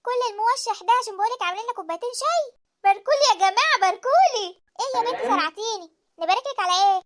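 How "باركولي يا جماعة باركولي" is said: فرحة عالية. Acted. تعلن نجاحها بفرح.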